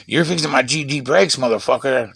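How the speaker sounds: a hint of a rough stepdad barking orders; mildly gruff, imitating his cursing stepdad. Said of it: "That's exactly how he talked to you".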